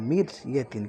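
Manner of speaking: মিরিয়াতিন with a thin র; light, thin র in মিরিয়াতিন; thin র demo. Shown as a demonstration. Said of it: "একদম পাতলা".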